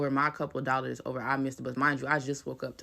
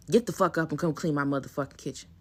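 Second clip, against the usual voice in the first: mom yelling; 4 dB louder than usual. Retold or imitated. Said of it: "My mama come busting in my room".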